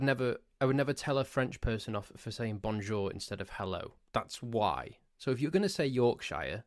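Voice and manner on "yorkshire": Yorkshire with a full "shyer" ending; American pronunciation. Shown as a demonstration. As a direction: pronounce Yorkshire YORK-SHY-er. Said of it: "the way that you say that".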